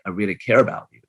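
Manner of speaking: a tender, sympathetic demo; caring voice. Shown as a demonstration. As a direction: sound like you truly care. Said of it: "the sympathetic caring one".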